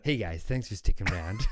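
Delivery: put-on a light Scottish accent, laughing through it; half-hearted Scottish accent thanking listeners. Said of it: "that was my Scottish accent".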